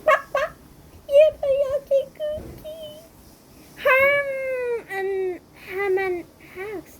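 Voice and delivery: high, slow squealing cheer; silly cheering chickens. Acted. Chickens cheering over cookies, high silly squeal.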